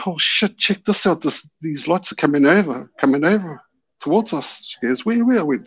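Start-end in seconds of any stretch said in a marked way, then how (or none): 0.1-4.6 high, eager call to look; excited calling out. Retold or imitated. 5.1-5.4 high, searching question; eager where. Retold or imitated. Wife voiced searching.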